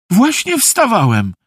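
high, eager call, overdone; fake enthusiasm. A narrator's reading. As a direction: call it out with put-on cheer. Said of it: "zawołał ze sztucznym entuzjazmem". (wysoko, ze sztucznym entuzjazmem)

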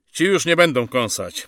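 high, forceful soldierly voice; soldier's report. Acted. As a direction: report up to your officer. Sergeant reports to officer.

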